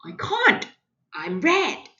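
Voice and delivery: lightly voiced anxious Red; a hint of a nervous refusal; a touch of worry. Red answers new friend.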